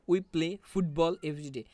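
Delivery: slow sentence with "football" stressed. Shown as a demonstration. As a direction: lean on "football". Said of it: "এখানে ফুটবলটা হচ্ছে stress word". ("football" শব্দে জোর দিয়ে ধীরে বলা)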